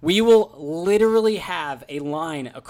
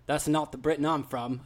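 imitating a British concierge, softer; lightly done British accent, quieter; 2 semitones lower, 5 dB quieter than usual. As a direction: quote him in a rough British accent. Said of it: "was totally British".

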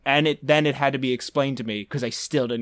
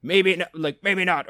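mock sheepish; 8 semitones higher than usual. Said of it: "he goes".

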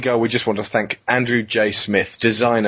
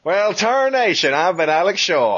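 put-on old prospector; 6 semitones higher than usual. Joins the cowboy prospector bit.

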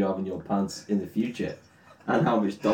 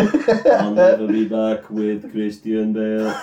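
laughing mock Terminator; 3 dB louder, slower than usual. Parodying the Terminator line.

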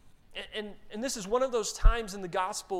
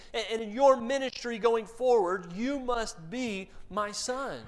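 commanding; 5 semitones higher, 3 dB louder than usual. Retold or imitated. God commissioning his son.

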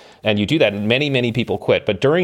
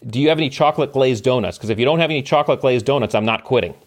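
raised, higher mock yell; buddy yelling a cheeky joke at the instructor, raised voice; retold yell; 4 semitones higher than usual. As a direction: call out cheekily from the surf. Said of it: "pipes up, he yells".

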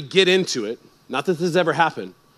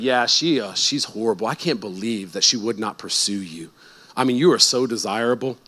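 mock flattering woman; 8 semitones lower, 5 dB quieter than usual. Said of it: "She'd be like".

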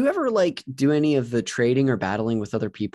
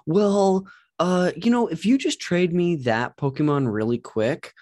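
higher, wheedling con artist voice; sly grifter; 6 semitones higher than usual. Retold or imitated. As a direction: sweet-talk the trade, high and coaxing. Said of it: "grifters out there who would be like".

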